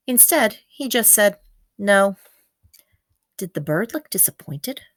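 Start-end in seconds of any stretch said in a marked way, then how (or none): 1.8-2.2 short, louder flat refusal; curt no. Acted. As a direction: cut it off with one word. Xander's curt one-word answer.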